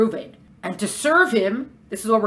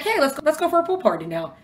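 tempting animal soul; 6 semitones higher than usual. Acted.

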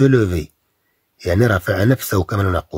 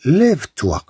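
mock teacher command; 6 semitones higher, much slower than usual. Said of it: "الأستاذ ممكن يقول لك".

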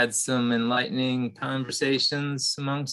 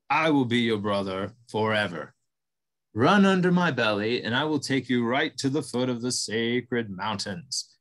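buffalo voice. Acted. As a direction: greet him like a gentle giant. Buffalo speaks at length.

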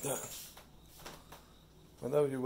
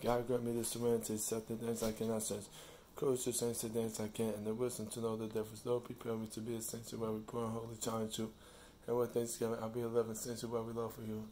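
rote recited prayer; 2 semitones lower, faster than usual. Acted. Reciting the Serenity Prayer for herself, fast and hushed.

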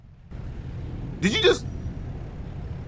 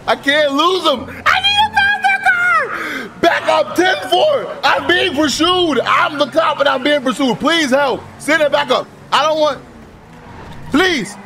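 scared; 6 semitones higher, slower than usual. Acted. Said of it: "I'm scared".

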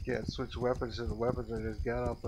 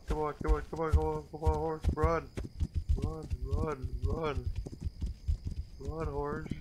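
high urgent shouts at the horse; yelling while running away; 5 semitones higher than usual. Real, not acted. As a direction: yell at the horse to run. Urging horse to flee bear.

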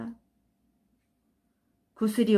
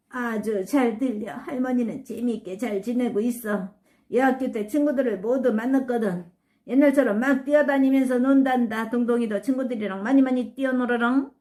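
grandma's voice; 3 semitones higher than usual. Acted. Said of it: "할머니 목소리다".

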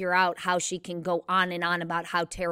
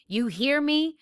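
repeated demand pushed higher, with mild anger; rising fury; 8 semitones higher, 4 dB louder, slower than usual. A narrator's reading. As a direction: press harder the second time, pitch climbing. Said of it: "Jem was suddenly furious".

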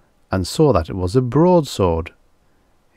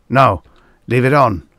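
mild moan, a little louder; 4 semitones higher, 6 dB louder than usual. A narrator's reading. Producer gives in to his assistant, mildly moaning. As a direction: moan it lightly, pitched up a bit. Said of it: "the producer moaned".

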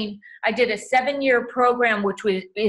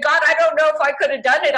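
daughter's amazement; 7 semitones higher, 5 dB louder than usual. Retold or imitated. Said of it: "My daughter said".

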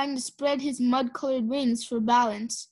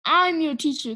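snarled; 2 semitones higher, 3 dB louder than usual. Acted. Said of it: "Kestrel snarled".

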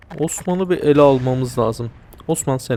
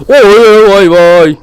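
loud high startled yelps; 6 semitones higher, 13 dB louder, slower than usual. Real, not acted. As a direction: yelp in real shock. Shocked yelping in game.

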